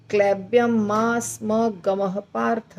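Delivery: क्लैब्यम मा स्म गमः पार्थ slowly, with a short pause after पार्थ. Shown as a demonstration. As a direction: recite slowly and take a brief rest after पार्थ. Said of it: "पार्थ के बाद अर्धविराम". (पार्थ के बाद हल्का विराम)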